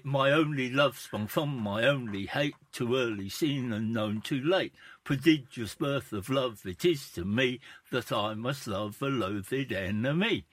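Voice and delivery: flat rote recitation of the verse; bad acting. Shown as a demonstration. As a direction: reel the lines off with no feeling. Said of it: "you wouldn't deliver it like that".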